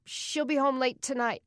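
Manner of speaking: put-on a small boy answering strangers; a hint of a kid's voice; child's voice. Young boy answering the couple.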